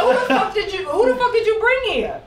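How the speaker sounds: incredulous, cracking up; laughing at a friend's secret date spot; laughing mock outrage. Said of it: "I'm like".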